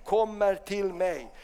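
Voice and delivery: quiet reverent quote; hushed awe. Acted. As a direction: breathe it out in wonder. Hon säger.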